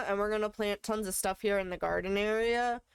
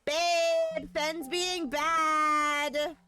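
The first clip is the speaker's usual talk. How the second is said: mock scolding; 6 semitones higher, 4 dB louder, much slower than usual.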